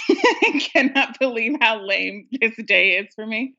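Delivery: retold thought, broken by a laugh; amused self-mockery with a laugh inside; laughing at herself. Caller retells her lonely Subway thought, laughing at herself. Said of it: "That's what I was thinking".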